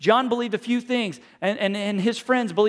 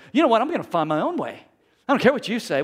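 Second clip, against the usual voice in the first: uppity; 3 semitones higher, 4 dB louder, faster than usual. Pretend. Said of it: "get all up, uppity and say".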